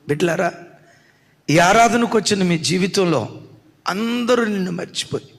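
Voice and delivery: ordinary delivery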